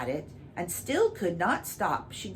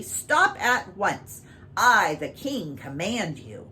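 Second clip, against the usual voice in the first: slow, loud royal command; commanding king; 2 semitones higher, 5 dB louder, slower than usual. Acted. King commanding the cow to stop, slow and loud. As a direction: lay down the order, slow and loud.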